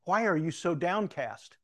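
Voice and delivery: lightly put-on King James speech; King James formality. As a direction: ask it with a touch of old Bible formality. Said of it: "said this in King James".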